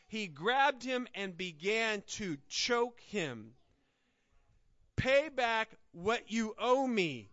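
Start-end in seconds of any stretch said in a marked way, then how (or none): 5.0-7.3 slow, louder, menacing demand. Acted. Servant choking his fellow servant, slow harsh demand. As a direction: lean on each word like a threat. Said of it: "he demanded".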